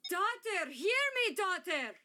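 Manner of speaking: high, loud anguished call; emotional cry. Acted. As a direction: call out desperately for the daughter. Repeats the demo line.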